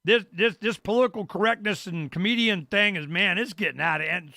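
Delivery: half-hearted Tim Allen complaint; imitating Tim Allen. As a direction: do Tim Allen griping, lightly. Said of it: "he's going".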